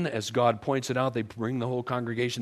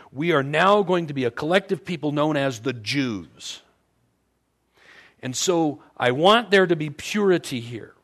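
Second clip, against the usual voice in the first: voice of God; 4 semitones higher, 4 dB louder than usual. Retold or imitated. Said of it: "God was trying to say".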